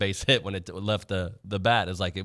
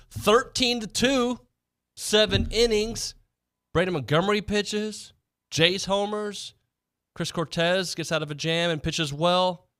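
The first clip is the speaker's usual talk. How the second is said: high, sing-song broadcaster voice; 9 semitones higher than usual. Shown as a demonstration. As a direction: ride the pitch up and down. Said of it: "Why is my voice going up and down?".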